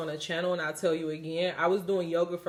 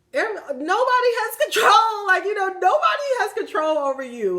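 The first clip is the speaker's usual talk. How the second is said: loud, much higher, fired-up insistence on nobody; passionate shout; 10 dB louder than usual. Retold or imitated. Telling a friend who called yoga evil, impassioned shout. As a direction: shout it like you are breaking free. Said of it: "And I'm like".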